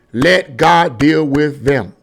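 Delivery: normal talking voice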